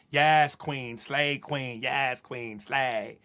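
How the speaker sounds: low mock cheer, lightly voiced; mock the empty cheerleading; mocking hype cheer. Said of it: "hypocrisy and the contradiction".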